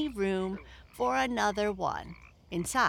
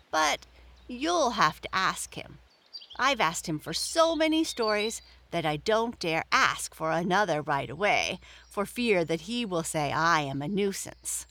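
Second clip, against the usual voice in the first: bunny afraid to ask; rabbit voice. Acted. Peter hesitating.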